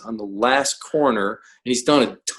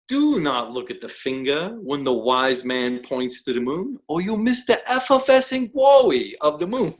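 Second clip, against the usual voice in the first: bad Bruce Lee accent. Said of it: "I'm giving a bad, uh, Bruce Lee accent".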